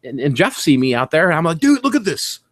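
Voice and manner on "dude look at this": high, thrilled call to a friend; higher-pitched excited showing off. Retold or imitated. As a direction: show off the find, squealing high. Showing Jeff a thrift find.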